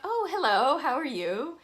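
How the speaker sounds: eager, sing-song hello; excited. Retold or imitated. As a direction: perk right up and sound thrilled to meet him. Perks up, greets the friend.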